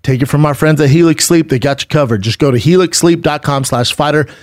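smooth, upbeat sponsor read. Real, not acted. Host selling mattresses to listeners, ad read. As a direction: pitch it to listeners with steady drive.

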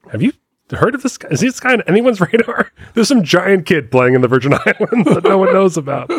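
high-pitched, intrigued retold phone pitch; excited tip-off. Someone calling a friend at Wake Forest, excited tip-off. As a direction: pass on a wild rumor in a high voice.

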